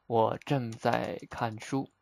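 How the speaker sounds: slow, clear model sentence; slow teaching demo. Shown as a demonstration. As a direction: spell it out slowly for the learner. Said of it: "Reading, we say 看书".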